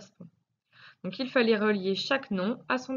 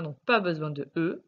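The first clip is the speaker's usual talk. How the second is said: normal talking voice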